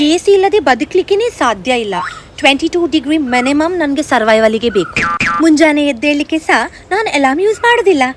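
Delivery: lightly voiced fussy, self-adoring girl; touchy girl-gang diva showing off to friends; pampered diva. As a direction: play the over-sensitive princess, all airs. Sketch of the sensitive personality.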